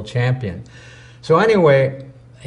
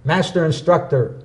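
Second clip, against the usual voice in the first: put-on Korean accent; 3 semitones higher than usual. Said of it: "He says".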